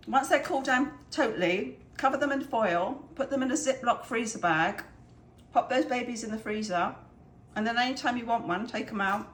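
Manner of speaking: talking while chewing; mouth full. Real, not acted. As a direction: speak around a bite of banana bread. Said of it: "Sorry, I'm talking my mouth full".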